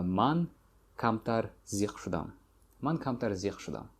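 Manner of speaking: northern Tajik dialect, say زیق instead of دلگیر. Shown as a demonstration. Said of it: "Which is more common in the north part".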